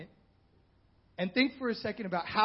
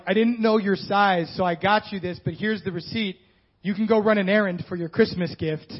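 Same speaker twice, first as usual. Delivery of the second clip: a hint of an awkward gift-giver; 4 dB louder than usual. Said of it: "Or like".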